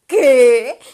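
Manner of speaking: loud shocked "¿Qué?"; shocked what. Retold or imitated. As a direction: blurt it out in disbelief. Reacciona a la teoría del huevo. ("¿Qué?" gritado, incrédula)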